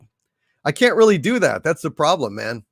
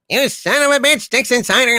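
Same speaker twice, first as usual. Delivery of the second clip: much higher, hammed-up villain outburst; mock outrage; 8 semitones higher than usual. Harvey turns on Dixon Sider, bursting into a hammed-up, higher villain rage. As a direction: explode in theatrical rage.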